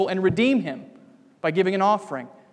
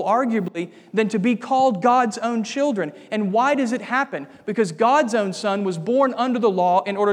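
emphatic preaching; 2 semitones higher than usual. Acted. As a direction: preach it to the congregation with building force. Preacher exults over adoption.

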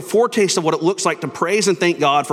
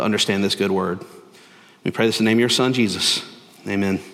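lower-pitched, earnest public prayer; 5 semitones lower than usual. Real, not acted. Pastor praying before the sermon, subdued earnest prayer. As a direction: lead the congregation in a subdued prayer.

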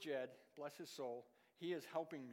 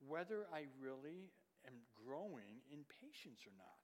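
hushed whisper; 4 semitones lower, 6 dB quieter than usual. Real, not acted. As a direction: drop to a whisper to press the point. Sermon point dropped to whisper.

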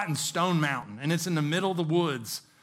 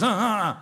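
imitated snoring grunts; 4 semitones higher, 4 dB louder than usual. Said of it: "loud noises where he goes".

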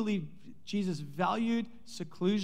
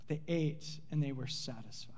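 "They ate and they were satisfied" softer, ate falling; soft echo; 6 semitones lower, 10 dB quieter than usual. Shown as a demonstration. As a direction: let the line fade as a quiet echo. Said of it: "and get this, underline it".

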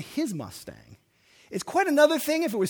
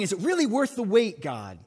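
doubting prayer; 5 semitones higher, 5 dB louder than usual. Retold or imitated. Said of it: "There's something you're wondering".

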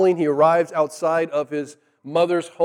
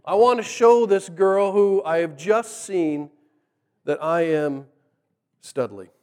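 slow mock-macho boast; impress mode. Jacob out to impress the girl, mock-studly. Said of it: "He's already in impress mode".

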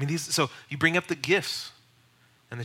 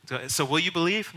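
pushy evangelist; 3 semitones higher than usual. Shown as a demonstration. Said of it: "Don't press for a response".

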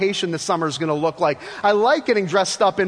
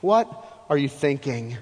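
incredulous Paul; 2 semitones lower, 5 dB quieter than usual. Retold or imitated. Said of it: "Paul's sitting here going".

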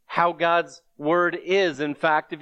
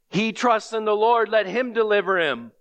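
a hint of mockery, voice higher; lightly sneering crowd taunt; mocking; 4 semitones higher than usual. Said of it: "The very words of mocking".

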